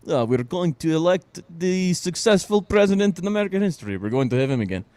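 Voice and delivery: a hint of smug media voice, mocked; mocking the media. Mocking the media's line to listeners, lightly sarcastic. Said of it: "why the media thinks".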